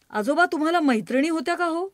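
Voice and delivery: put-on child voice. Child asks grandfather.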